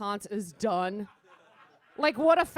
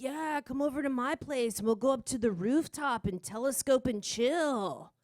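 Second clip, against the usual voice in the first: lightly voiced smooth-talking astronomer; mock pickup line; 3 semitones higher than usual. Comic mocks Galileo inviting women to his rooftop, mock pickup voice. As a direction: imitate a guy trying to get chicks, a bit higher. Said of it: "He's all like".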